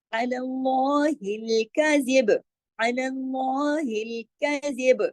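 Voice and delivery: कज़िब ending with a bouncing ब; qalqala on ब. Shown as a demonstration. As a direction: echo the stop on कज़िब. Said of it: "हम कलकला करेंगे यहाँ". (कज़िब के ब पर कलकला)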